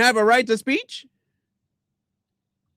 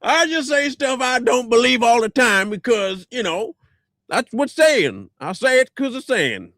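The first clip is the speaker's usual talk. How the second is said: mocking imitation; 5 semitones higher than usual. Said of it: "I speak the stuff".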